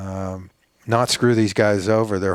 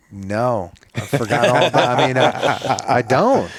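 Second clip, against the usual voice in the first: casual dismissal; 3 semitones higher, 4 dB louder than usual. Retold or imitated. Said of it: "And I'm like".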